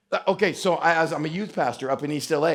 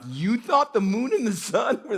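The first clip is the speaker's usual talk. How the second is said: mock disbelief; 4 semitones higher than usual. Bus riders' disbelief at the girl.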